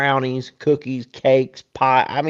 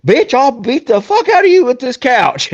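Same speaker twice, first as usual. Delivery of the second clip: higher, louder mock threat yelled at her; 11 semitones higher, 5 dB louder than usual. Boom Boom threatening Carrie while holding the couch, mock yell. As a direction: bellow it like a wrestler holding up a couch. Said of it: "It's like a wrestling pose".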